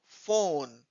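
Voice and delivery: "फोन" held as a separate syllable; teacher isolating "फोन"; sounded-out syllable. Shown as a demonstration. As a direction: say फोन alone as one word part. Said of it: "छोटे-छोटे parts में उसको".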